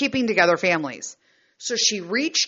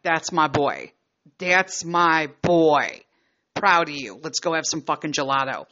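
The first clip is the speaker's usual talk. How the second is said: proud praise; 4 semitones lower than usual. Retold or imitated. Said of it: "And I'm like".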